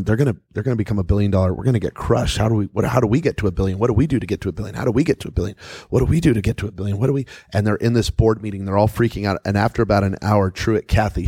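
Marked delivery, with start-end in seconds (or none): 0.0-7.3 fast, frantic babble of worried execs; panicked rush. Retold or imitated. Chick-fil-A reps in a board meeting, frantic and rushed. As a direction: pile the questions on in a panicked rush. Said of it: "They were freaking out".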